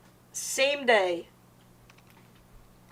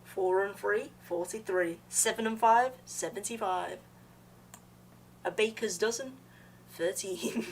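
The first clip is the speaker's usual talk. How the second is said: bingo caller. Pretend. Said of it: "Bro saying it like he's a bingo caller".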